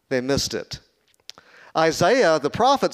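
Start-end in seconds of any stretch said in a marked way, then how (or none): 0.1-0.8 whisper. Real, not acted. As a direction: drop to a hushed whisper. Sermon point lands softly.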